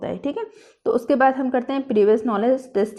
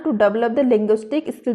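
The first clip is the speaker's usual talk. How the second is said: slow dictation; much slower than usual. Shown as a demonstration. Dictation continues.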